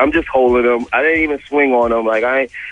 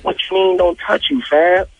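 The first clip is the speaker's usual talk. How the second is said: higher-pitched mock indignation; imitated indignant challenge; 7 semitones higher than usual. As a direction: throw it back as an affronted question. Imitates Ray J's indignant reply.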